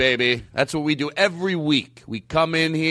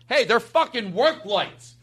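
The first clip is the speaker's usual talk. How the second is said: higher, slow and emphatic; mock insistence; 10 semitones higher, slower than usual. Insisting to the wedding planner, slow and defiant. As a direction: drag it out, defiant.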